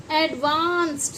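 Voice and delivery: "एडवांस्ड" drawn out slowly, ending in t; ADVANCED with t ending. Shown as a demonstration. Teacher models new word, slow एडवांस्ड with t. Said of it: "इसे हम पढ़ते हैं एडवांस्ड".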